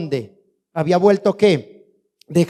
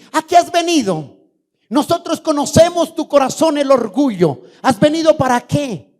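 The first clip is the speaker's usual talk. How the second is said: higher-pitched, accusing big brother; acted reproach; 7 semitones higher than usual. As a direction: scold the kid brother for showing up. Brothers scold David in retelling. (reproche fingido de hermano mayor)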